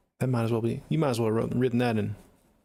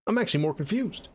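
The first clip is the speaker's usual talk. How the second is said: much higher, baffled rising "I'm actually more confused"; comic bewildered echo pitched up; incredulous repeat; 6 semitones higher than usual. Real, not acted. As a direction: say it again in disbelief. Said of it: "I just read that whole sentence".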